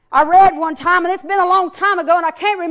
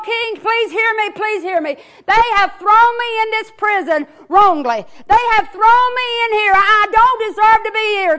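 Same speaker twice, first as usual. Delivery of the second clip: higher, begging cry to the king; pleading prisoner; 4 semitones higher than usual. Acted. Prisoner calling to the king through bars, higher pleading.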